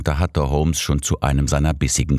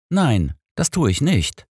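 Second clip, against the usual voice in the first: firm voice; 10 semitones higher than usual. A narrator's reading. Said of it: "gab ich mit fester Stimme zurück".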